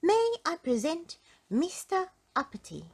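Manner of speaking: high, loud goblin introduction; announcing goblin. A narrator's reading. Goblin presenting Mister Uppity to the king, announcing. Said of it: "announced the goblin".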